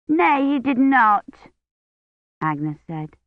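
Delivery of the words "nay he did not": put-on high, slow little girl objecting; a small child insisting; child's voice. A narrator's reading. Child Agnes contradicts.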